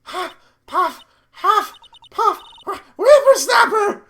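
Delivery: high puffed words bursting into a loud scolding cry; winded old lady yelling after a youngster; hammed-up hyperventilating. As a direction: huff and puff, then explode in a high mock yell. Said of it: "I'm gonna fucking hyperventilate here".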